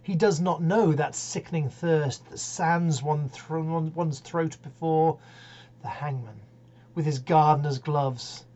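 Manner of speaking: grave, steady ballad reading; poem recitation. Acted. Host reading Wilde's ballad aloud, solemn recital.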